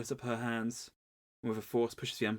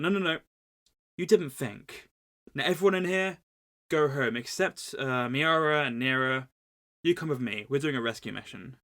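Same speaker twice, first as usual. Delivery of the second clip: bossy, raised voice, sharp orders; mock commanding shout; 4 dB louder than usual. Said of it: "Ahsoka's like".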